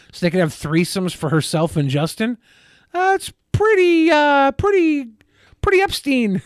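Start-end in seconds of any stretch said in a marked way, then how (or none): 2.9-6.4 very high, slow disbelief; incredulous. Real, not acted. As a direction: stretch it in disbelief. Shocked reaction to allegation.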